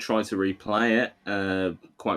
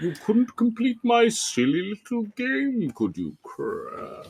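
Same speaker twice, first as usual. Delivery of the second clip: very high, swooping, sing-song cartoon-villain voice; 12 semitones higher than usual. Quoting the Crash Bandicoot villain speaking to Crash, in a Neo Cortex voice. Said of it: "sounding more like the fucking guy out of Crash Bandicoot".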